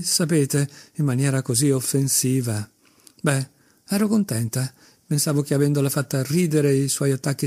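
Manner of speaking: a fretful mother rattling on, pitch jumping up on the worst parts; agitated society mother. Acted. Mother begging Alexei to visit her daughter, agitated and breathless. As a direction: pour out her worries to the young man, half hysterical. Khokhlakova's long agitated monologue.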